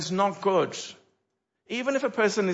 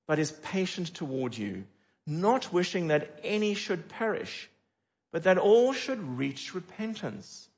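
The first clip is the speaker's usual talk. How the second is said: slow, deliberate Bible reading; measured reading of the verse; scripture reading. Acted. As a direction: read the promise with gentle weight. Reads scripture aloud.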